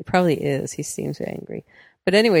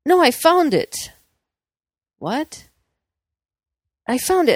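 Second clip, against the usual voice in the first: excited neighbor; 9 semitones higher than usual. Retold or imitated. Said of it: "She borrowed my phone".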